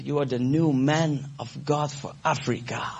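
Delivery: slow, breathless whisper of a prophecy; secret whisper. Retold or imitated. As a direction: lean in and whisper it slowly like a secret. President fluistert profetisch woord. (langzaam fluisterend, als een geheim)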